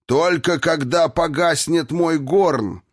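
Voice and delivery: high, slow, emphatic refusal; defiant shout. A narrator's reading. Dwarf Dvalin refuses to let Irina go, defiant shout. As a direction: cry out, punching each word.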